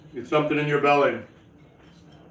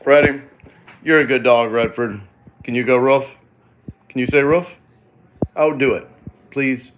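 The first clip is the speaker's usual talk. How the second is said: doggy talk; 5 dB louder than usual. Real, not acted. Talking to the dog.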